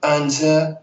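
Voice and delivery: a hint of a chatty elderly woman; old lady voice. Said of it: "I love your old lady voice".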